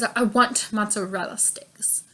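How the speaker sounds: whispered, slow and full of attitude; sassy whisper. Retold or imitated. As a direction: breathe it out with attitude, slowly. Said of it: "pretty much how she said it".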